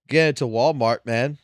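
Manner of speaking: ordinary talk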